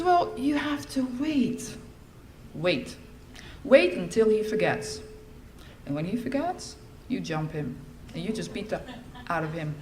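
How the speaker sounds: slow, deliberate fatherly instruction; a hint of a scheming dad; father's slow advice. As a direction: spell out the revenge plan patiently. Father teaching revenge.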